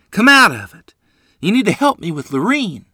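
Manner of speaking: high, loud urgent call. A narrator's reading. Mother calling her delirious son, high and urgent. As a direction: rouse him out of his fog.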